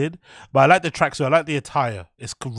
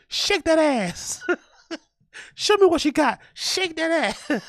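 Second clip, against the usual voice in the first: high, stretched-out mock Black American accent; hacky stereotyped inflection; 13 semitones higher, slower than usual. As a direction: parody a hype comic's accent, breaking into laughs. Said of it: "that black inflection".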